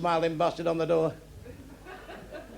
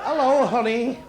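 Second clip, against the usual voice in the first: mock sultry hooker; 6 semitones higher, 4 dB louder, slower than usual. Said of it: "Honey me, like".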